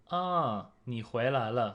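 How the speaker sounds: 惊讶地说你回来了; surprised ah. Shown as a demonstration. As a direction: greet someone back with surprise. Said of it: "So the first sentence is".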